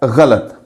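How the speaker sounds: गलत as gha-lat; correct pronunciation. Shown as a demonstration. Teacher correcting the widespread form, गलत as gha-lat. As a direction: say गलत with two short a vowels. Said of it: "इसका दुरुस्त तलफ़ुज़ जो है".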